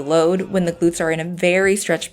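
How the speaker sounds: calm, even voiceover read; walk them through it calmly; voiceover narration. Acted.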